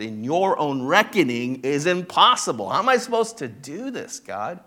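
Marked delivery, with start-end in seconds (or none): 2.7-4.6 higher, pleading question to God; a mild mock cry of overwhelm; exasperated plea. Pastor voices a believer overwhelmed by God's task, pleading. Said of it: "God is asking you to".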